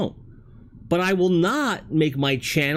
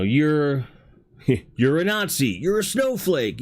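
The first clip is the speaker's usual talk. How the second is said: mock accusing jabs, pitched up at the end; accusatory; 2 semitones higher than usual. Mimicking online name-callers for his viewers, accusatory. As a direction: imitate name-calling with a short laugh. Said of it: "and be accusatory".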